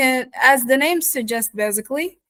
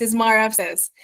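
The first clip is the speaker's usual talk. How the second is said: New York "Mar upstairs", mother said as Mar; New York accent, R linking Mar to upstairs. Shown as a demonstration. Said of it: "that's the sentence that I've been talking about".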